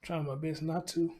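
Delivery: real, understated heartbreak, holding back tears; heartbroken. Real, not acted. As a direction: keep it contained, trying not to cry. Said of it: "Y'all can hear my voice. I am heartbroken".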